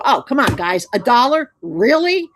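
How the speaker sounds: whiny complaint. Retold or imitated. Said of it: "don't sit there and go".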